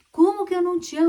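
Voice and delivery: high, loud amused disbelief; father surprised by his crying daughter's claim; astonished father. Retold or imitated. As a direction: play the dad baffled by his daughter. Father answers the child.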